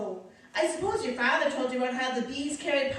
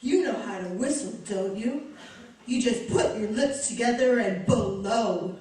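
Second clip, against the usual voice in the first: Lauren Bacall; 2 semitones lower than usual. Acted. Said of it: "now she wants to be Lauren Bacall".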